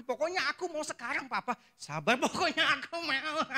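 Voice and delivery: put-on high, bratty kid insisting with a laugh; tantrum child. Boy throwing a fit at his papa in the mall, bratty. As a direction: demand the toy right now, whining.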